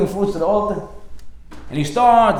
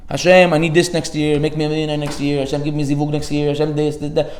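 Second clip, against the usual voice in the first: mock rote petition, one demand after another; shopping-list prayer. Worshipper listing wishes to Hashem like a shopping list, rattled off evenly. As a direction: reel off requests in an even run. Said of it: "it's a Am-, Amazon shopping list".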